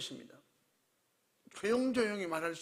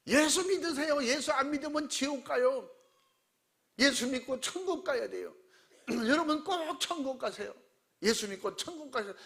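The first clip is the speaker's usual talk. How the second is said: shouting at passersby, high and loud; loud street preaching; 5 semitones higher than usual. Retold or imitated. Deacon calls to passersby, a loud high shout. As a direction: call out to the whole station. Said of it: "진짜 멀리서도 다 들려요".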